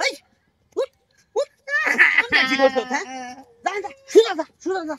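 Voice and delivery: angry shouting. Real, not acted. Fisherman driving off the troublemaker, angry yelling. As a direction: shout them away, straight off.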